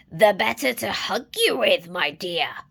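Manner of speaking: mild growl. Acted. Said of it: "growled the wolf".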